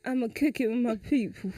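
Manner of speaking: put-on soft, unbothered boyfriend; Julius. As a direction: shrug her off quietly. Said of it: "So you call, you call me".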